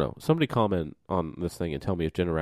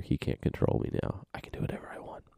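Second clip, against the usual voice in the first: whispering; 5 dB quieter than usual. Pretend. Mischief with co-host away.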